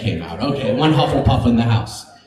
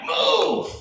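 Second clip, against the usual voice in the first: snapped order; 4 dB quieter than usual. Retold or imitated. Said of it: "I'm like".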